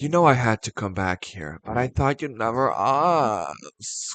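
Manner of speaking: put-on Valley girl accent showing through. Imitating a movie line by Neve Campbell: Neve Campbell Valley accent. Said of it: "her Valley accent sometimes slips in".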